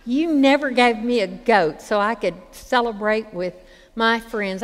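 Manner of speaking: a hint of a sulking son; pouting. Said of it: "I think he said it kinda pouting".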